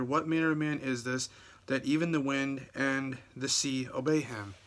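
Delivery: measured King James reading; scripture reading. Acted. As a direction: read the verse out to the congregation. Reads scripture passage aloud.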